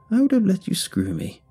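high, insistent woman's voice; deranged old woman. A narrator's reading. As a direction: repeat it firmly as the unhinged lady. Deranged woman repeats her lewd confession.

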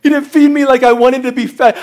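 lightly acted indignation; mad churchgoer. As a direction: imitate a disgruntled church member's grumble. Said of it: "and they get mad".

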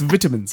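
"vitamins" with a short first i, as in "bit"; British vitamins. Shown as a demonstration. Host citing the one different word, British "vitamins". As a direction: say "vitamins" the British way, "VIT-amins". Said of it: "you don't pronounce it differently unless it's vitamins".

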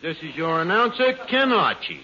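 put-on old-time radio announcer intro; formal show opener, presenting the star. Announcer opens the floor show.

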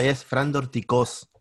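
"Fran Dorticós": Fran with no k, stress on the final O of Dorticós, slow; careful name correction. Shown as a demonstration. Guest correcting the host on his name, slow and careful. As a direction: correct it gently: "Fran", and lean on the last O of "Dorticós". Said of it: "El nombre tiene acento en la última O".

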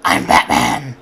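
deep booming shout; yelled. Retold or imitated. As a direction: yell it right in their face. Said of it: "and yells".

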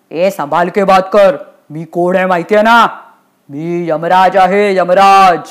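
stern, pompous warning; imperious Yamraj. Acted. Yamraj asserts who he is.

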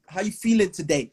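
imitated pushy greeting; mock aggressive. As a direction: make a friendly question sound mildly confrontational. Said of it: "everything they say is aggressive".

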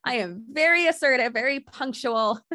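giggling while bragging; laughing. Real, not acted. Bragging to the co-host about being assertive, laughing. Laughing at her own boast.

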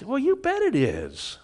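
mock-indignant prophet defending his anger; angry Jonah. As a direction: insist you have every right to be angry. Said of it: "And he says".

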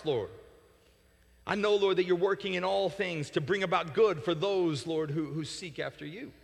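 steady, earnest praying; prayer. Acted. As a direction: speak straight to the Lord. Praying aloud to close.

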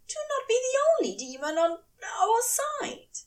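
high, tear-choked fury; tearful angry angel. A narrator's reading. Aziraphale rages at Crowley, high and tearful. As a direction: lash out through tears. Angel accuses, near tears.

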